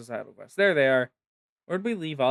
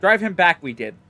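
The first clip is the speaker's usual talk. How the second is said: louder, clipped birdfolk speech; squawky bird-man; 3 semitones higher, 3 dB louder than usual. Acted. Sezzle calming the frightened birdfolk, squawky and louder. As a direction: bark it out like an agitated bird creature. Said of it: "It was all loud squawking".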